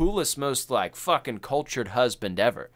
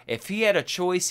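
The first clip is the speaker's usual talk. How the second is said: ordinary talk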